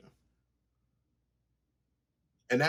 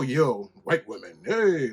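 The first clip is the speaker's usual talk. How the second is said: mock catcall; 4 dB louder, slower than usual. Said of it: "I don't just go".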